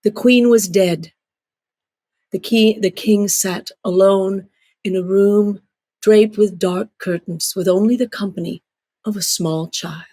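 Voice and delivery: slow, hushed story opening; storyteller voice. Shown as a demonstration. Storyteller showing how a tale begins, in slow story voice. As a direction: draw the listener into the tale. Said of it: "if you start a story and say".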